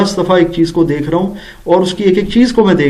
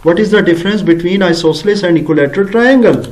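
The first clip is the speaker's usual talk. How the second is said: slow correct version; much slower than usual. Shown as a demonstration. Teacher gives students the correct question, slow and clear. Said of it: "یہ آتا ہے جی اس کا جملہ".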